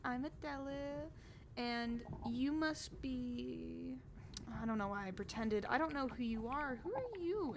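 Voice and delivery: high, bubbly noble lady; cheerful Adela. Acted. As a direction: chirp it up like an eager hostess. Adela introduces herself.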